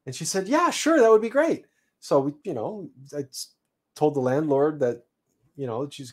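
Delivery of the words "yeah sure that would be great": high, delighted yes, mimicking her; eager acceptance. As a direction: squeal a happy yes. Woman accepts dinner invite, retold.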